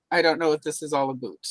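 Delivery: mock Canadian, with "about" as "a boot"; attempted Canadian accent. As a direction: lightly put on a Canadian accent. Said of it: "So I've worked through my Canadian".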